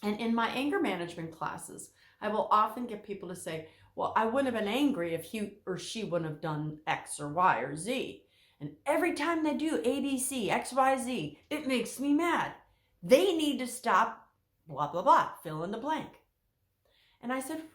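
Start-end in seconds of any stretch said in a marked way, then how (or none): 3.9-15.3 mock client complaint. Anger class clients quoted.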